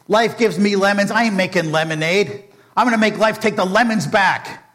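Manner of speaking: building from flat threat to a loud, high, hammed-up rage; villain vows revenge, building to a loud mock-furious shout; furious rant. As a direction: let the fury climb into a comic tantrum. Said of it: "Oh, he was furious".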